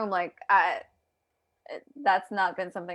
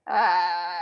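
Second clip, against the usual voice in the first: long low zombie moan, played for laughs; zombie groan; 3 semitones lower than usual. Host showing off a silly zombie background, mock groan.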